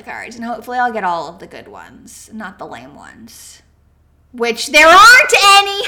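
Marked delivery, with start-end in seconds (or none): 4.3-5.9 loud playful burst with a laugh; excited laugh. Real, not acted. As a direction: blurt it out, then laugh. Jokes about lame cards.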